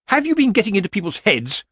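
high-pitched furious accusation; acted shriek. Lettice confronts Granny, wild with rage, in a high shriek. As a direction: shriek it without full volume. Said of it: "she shrieked".

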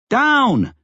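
high-pitched urgent shout. A narrator's reading. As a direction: shout a command over the din. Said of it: "Stan shouted".

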